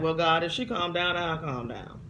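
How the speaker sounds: a hint of bargaining sass; bargaining with God, half defiant; mild stubborn talk-back; stubborn answer to God. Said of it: "It's my little stubborn crazy".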